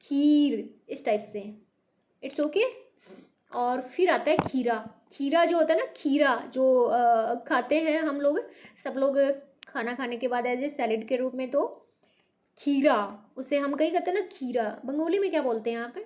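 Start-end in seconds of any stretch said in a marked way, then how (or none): 0.0-0.8 खीर with the ई held and pressed; stressed kheer. Shown as a demonstration. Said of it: "देखो थोड़ा सा stress दे". 12.6-13.0 खीरा with a firm long ई; teacher modelling the word; stressed kheera. Shown as a demonstration. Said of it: "देखो थोड़ा सा stress दे".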